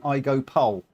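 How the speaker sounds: normal talking voice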